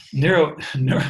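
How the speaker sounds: tripping over neuro while laughing; laughing stumble. Real, not acted. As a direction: laugh through the false starts.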